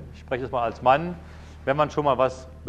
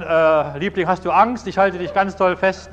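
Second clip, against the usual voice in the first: raised, high storytelling voice; husband calling out; 5 semitones higher, 6 dB louder than usual. Retold or imitated. Husband to wife in a tornado, loud reassurance. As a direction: call out reassurance over a storm, mock-urgent.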